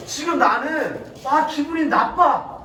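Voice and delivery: acted fed-up, aggrieved rant; mildly hammed-up exasperation; mock outburst. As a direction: complain indignantly, as if being toyed with. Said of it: "이스라엘 백성들이 빵 터져버렸어요".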